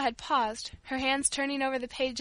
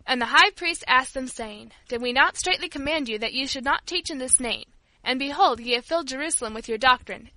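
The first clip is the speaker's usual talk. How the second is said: louder, declaimed Bible verse; emphatic scripture recitation; reading scripture aloud; 5 dB louder than usual. A narrator's reading. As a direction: read the passage out firmly to the listeners. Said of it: "he commenced to read aloud".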